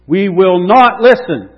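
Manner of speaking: leading shout. Shown as a demonstration. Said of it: "without me shouting".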